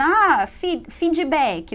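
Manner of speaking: imitating feedback as fidjibéki; mock learner saying fid-ji-béki; wrong Brazilian feedback. Teacher imitating a student's Brazilian feedback. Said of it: "no meio do contexto ali da língua inglesa".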